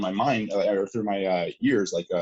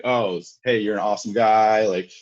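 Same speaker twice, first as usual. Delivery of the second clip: imagined grateful thanks; 3 dB louder, slower than usual. Retold or imitated. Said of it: "I'm like".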